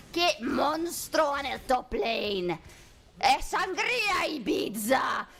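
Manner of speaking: slow, stretched hype call; drawn-out Spanish caster shout. Acted. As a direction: savor each word like a Spanish announcer. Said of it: "the only thing I think I could maybe still do is Spanish".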